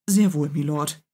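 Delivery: plain reading voice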